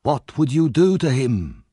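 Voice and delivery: put-on high, creaking old man's voice, slow and sinister; sly old villain. A narrator's reading. Fagin baiting Sikes about the traitor, menacing. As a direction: needle him with a hateful question.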